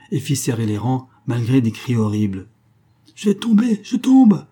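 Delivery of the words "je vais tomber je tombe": high, loud yell of alarm; panicked cry. A narrator's reading. Companions on the crowded raft about to fall, crying out. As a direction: cry out louder as you fall. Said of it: "criaient ses compagnons".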